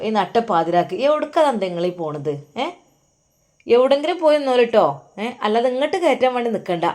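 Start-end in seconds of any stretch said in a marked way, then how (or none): 3.7-6.9 sharp threat. Acted. Wife threatens to lock him out.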